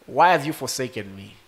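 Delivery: high, loud cry breaking off; anguished cry. Acted. Preacher voicing Jesus crying out on the cross. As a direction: cry out to God in agony.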